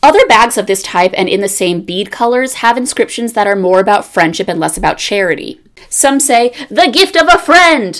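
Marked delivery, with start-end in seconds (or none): 6.7-8.0 very high-pitched, all-out shouting. Reading aloud an all-caps inscription on a bag: yelling. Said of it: "I will keep yelling them because they are all capital".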